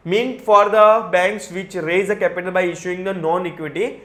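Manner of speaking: measured textbook read-aloud; slow reading of the law. Acted. Teacher reading the SEBI rule to students, slow and even. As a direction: read the provision out slowly and evenly. Reading provision text slowly.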